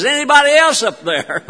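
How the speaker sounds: high-pitched mock call for someone else; comic calling out. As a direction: toss the punchline upward as a hopeful shout. Punchline, stranded man calls up again.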